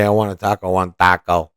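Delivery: a hint of a put-on Spanish accent; lightly mocking Spanish accent on taco; taco said with a mild mock Spanish accent. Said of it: "change your goddamn accent".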